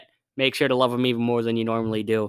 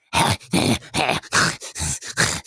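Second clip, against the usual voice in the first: snorting wheezy pug noise. Shown as a demonstration. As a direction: snuffle and huff like a pug. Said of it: "wanna hear my pug impression".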